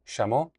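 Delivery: "chamó" opening on a sh sound; "chamó" with a hushed sh onset; Argentine pronunciation. Shown as a demonstration. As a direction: say "chamó" Argentine style, sh first. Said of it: "I might say chamó".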